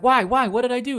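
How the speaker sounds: high-pitched imitation of bewildered protest; mock protesting. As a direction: plead innocence as the ejected player. Acting out ejected player's protest.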